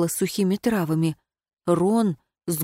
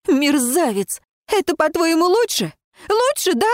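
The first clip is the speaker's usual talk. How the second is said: rising, much higher angry cry; yelling at him; 9 semitones higher than usual. Acted. Heroine hits Ron, shouting ever higher in anger. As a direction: climb higher with every word in fury.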